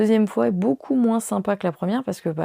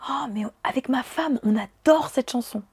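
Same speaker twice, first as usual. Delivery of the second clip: lightly imitating him, pitched higher and breezy; mock boyfriend's voice; 5 semitones higher than usual. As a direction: ape his carefree tone a bit higher. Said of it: "il me dit".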